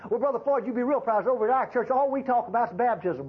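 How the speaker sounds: boastful churchgoer. Retold or imitated. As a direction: brag about your church like a smug member. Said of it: "Wrong mo-, message".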